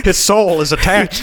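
mock grave. Mock-grave comment on lost character.

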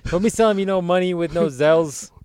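put-on a light grumpy old-timer voice; cranky old geezer griping at kids; old prospector. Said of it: "I've been like".

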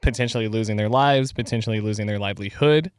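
measured, even public-statement delivery; earnest-sounding statement of sympathy; formal disclaimer. Pretend. Reads out a mock-official disclaimer.

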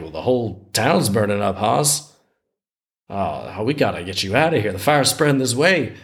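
lightly voiced Southern looter; terrible Southern accent. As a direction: put on a mild Southern twang. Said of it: "I got to do a terrible Southern accent".

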